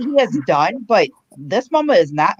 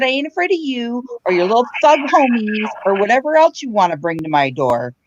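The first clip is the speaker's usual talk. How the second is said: high-pitched mock fury at her son; retold angry scolding; 5 semitones higher than usual. Mother retelling how she yelled at her son, high and angry. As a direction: scold him like a fed-up mom. Mom threatening screaming son.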